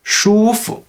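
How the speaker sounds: 舒服 with 舒 high and level, 服 brief and light; neutral tone ending. Shown as a demonstration. Teacher demonstrating neutral tone, 舒服 ending short and light. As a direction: hold 舒 high, then barely touch 服. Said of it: "second syllable is with a neutral tone".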